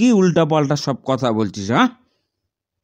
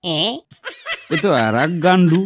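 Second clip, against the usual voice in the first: laughing; 3 semitones higher, much slower than usual. Acted. Teacher laughs at silly answer.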